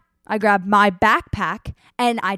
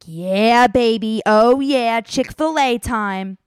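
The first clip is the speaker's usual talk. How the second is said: put-on louder, hyped-up yeah baby; excited cheer; 4 dB louder, slower than usual. Landing in Charlotte, hungry traveler cheers for Chick-fil-A, excited. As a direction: pump yourself up for the food.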